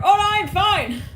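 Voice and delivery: loud, high shout of "I'm fine". Retold or imitated. Nervous driver yelling to the friend that they are fine, loud shout. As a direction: blurt it out, yelling over loud music.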